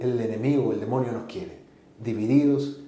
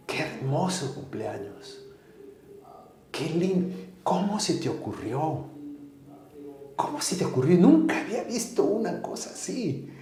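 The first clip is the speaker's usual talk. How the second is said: hushed praise; 4 semitones higher, 6 dB quieter than usual. Retold or imitated. Mother-in-law's hushed praise.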